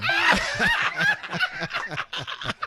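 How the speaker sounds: high, loud cackle of laughter; big high laugh. Real, not acted. Laughing at his own punchline, loud high cackle. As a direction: crack up hard.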